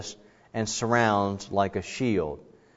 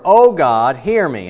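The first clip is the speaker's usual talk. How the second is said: lament plea; 8 dB louder, slower than usual. Shown as a demonstration. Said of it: "The other one is you".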